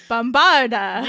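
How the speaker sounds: a mock Transylvanian spell cry; vampire accent. Player casting on request, mock vampire accent. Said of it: "say it in a vampire accent".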